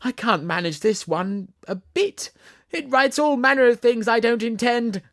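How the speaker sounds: panting king. Acted. King struggling with pencil to Queen, panting loud complaint. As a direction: gasp it out as if fighting the pencil. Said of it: "he panted out".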